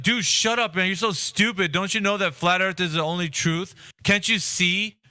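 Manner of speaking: mocking flat-earther rant. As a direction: sneer at the newcomer like a know-it-all zealot. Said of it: "this is what it sounds like when people".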